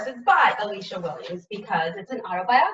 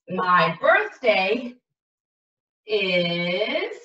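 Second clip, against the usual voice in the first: slow dictation; 2 semitones lower, much slower than usual. Shown as a demonstration. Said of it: "writing while saying it".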